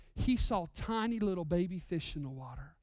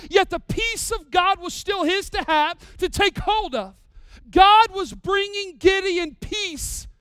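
preaching at full force; 8 semitones higher, 10 dB louder than usual. Acted. Preacher to his church, booming full-force preaching. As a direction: proclaim it from the pulpit. Preacher builds the sermon climax.

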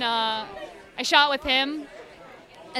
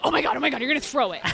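excited dog voice; much faster than usual. Retold or imitated. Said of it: "She'll be like".

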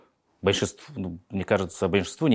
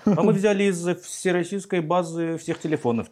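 cheery caller voice; 8 semitones higher than usual. Retold or imitated. Acting out a cold-call scene.

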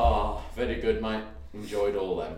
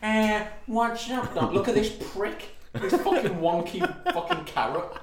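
lightly voiced Bugs Bunny; 4 semitones higher than usual. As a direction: toss off a lazy cartoon-rabbit line. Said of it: "Unless you're Bugs Bunny".

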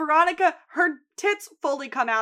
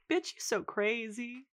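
background remark; 8 dB quieter than usual. Retold or imitated. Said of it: "you can hear him in the background".

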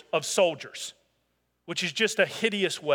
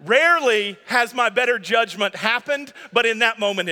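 laughing; 4 semitones higher, 5 dB louder than usual. Real, not acted.

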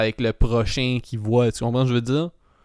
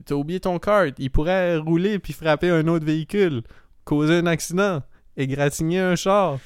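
a preachy British-flavoured scold, pitched higher; lecturing cart narc; 5 semitones higher than usual. Retold or imitated. Cart narc lecturing a shopper about the abandoned cart, pitched higher. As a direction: scold the driver like a smug parking-lot hall monitor. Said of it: "il est comme".

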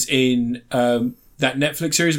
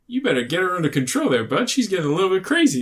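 imitated American guy, raised pitch; American accent; 6 semitones higher than usual. American guy warning his bud about her, mock American accent. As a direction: do a folksy American with a swooping tune. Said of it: "he plays an American guy".

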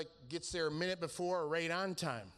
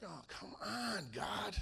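reluctant groan; 2 semitones higher, 5 dB quieter, slower than usual. Retold or imitated. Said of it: "I'm like".

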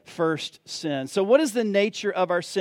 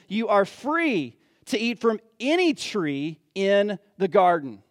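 God's words. Acted. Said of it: "the Lord God commanded the man".

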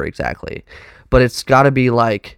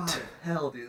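lizard sound; 3 semitones higher, 18 dB quieter than usual. Shown as a demonstration. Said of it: "My lizard sound".

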